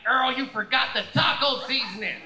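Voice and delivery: mock scolding wife; nagging wife. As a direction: snap at him like a bossy wife. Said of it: "She's like".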